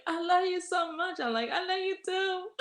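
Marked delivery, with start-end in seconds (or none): 0.1-1.2 high-pitched mock gushing; gushing affection. Friend's gushing declaration, acted quote. 1.5-2.5 high, sing-out mock gushing; gushing affection. Acted reply to friend's declaration.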